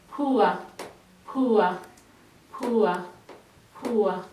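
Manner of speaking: slow drilled repeats, falling each time; drill repetition. Shown as a demonstration. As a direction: say it over as a class drill. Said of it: "That is how we drill poor".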